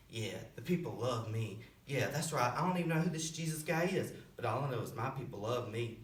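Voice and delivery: low, offhand boast, lightly acted; a hint of a smug thug, voice dropped low; cocky Barabbas, lightly voiced. Freed prisoner boasting to his friends, lightly cocky.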